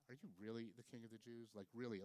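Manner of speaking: sincere wondering, stress on "really"; genuine questioning. Shown as a demonstration. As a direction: ask it in earnest, quietly doubting. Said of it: "this question of like".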